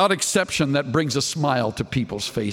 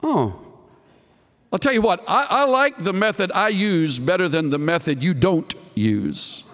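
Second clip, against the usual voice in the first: tart retort; 2 semitones higher than usual. Retold or imitated. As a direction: fire back tartly, as if quoting a preacher. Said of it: "Moody replied rather tartly".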